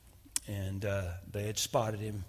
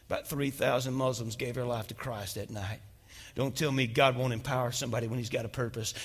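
ordinary talk, nothing marked

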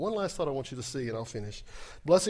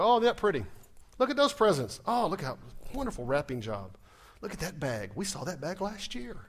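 lightly voiced fake gift delight, pitch up at first; a hint of mock wonder at the wrapping; 2 semitones higher than usual. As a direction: gush over the presents in play. Mock Christmas morning gift opening.

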